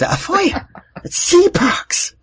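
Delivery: high, drawn-out mock Irish accent; exaggerated Irish catchphrase. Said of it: "say that in an Irish accent".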